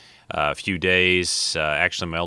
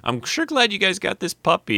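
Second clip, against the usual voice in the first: sarcastic; 13 semitones higher than usual. Acted. Ironic thanks to son.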